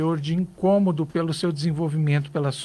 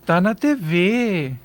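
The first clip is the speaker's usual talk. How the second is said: slow, drawn-out envious hum; sour, begrudging remark; envious sneer; 3 dB louder, much slower than usual. Shown as a demonstration. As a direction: let the jealousy leak through the praise. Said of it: "Olha a entonação da minha voz".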